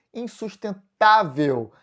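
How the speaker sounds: "Insustentável" drawn out slowly, leaning on TÁ; slow the word down and stretch the penultimate syllable of "Insustentável"; penultimate stress. Shown as a demonstration. Teacher points out the tonic syllable, "Insustentável" stressed on TÁ. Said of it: "A sílaba tônica é a penúltima".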